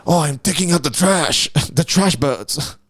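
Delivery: badly faked Asian accent, breaking into laughter. Comedian playing the bin chicken killer, bad Asian accent. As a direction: put on a clumsy mock Asian accent. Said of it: "that's a bad Asian accent".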